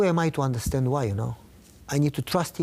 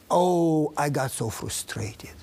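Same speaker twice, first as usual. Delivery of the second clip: hushed, breathy whisper of frustration; much slower than usual. Retold or imitated. Retelling his frustration to the host, whispered. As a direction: drop to a whisper as if confessing.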